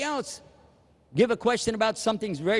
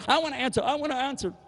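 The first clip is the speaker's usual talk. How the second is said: eager to answer; 8 semitones higher, faster than usual. Retold or imitated.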